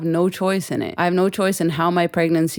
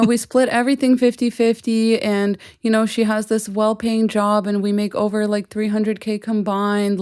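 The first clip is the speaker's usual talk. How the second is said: mock whining husband, pitched higher and slowed; whiny husband; 3 semitones higher than usual. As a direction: imitate a husband whining about fairness, hammed-up. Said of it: "her husband came crying to Reddit".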